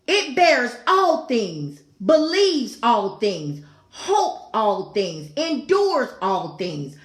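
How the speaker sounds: each phrase drawn out and weighed; slow scripture reading. Acted. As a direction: read it like a solemn verse from the pulpit. Preacher reads scripture slowly.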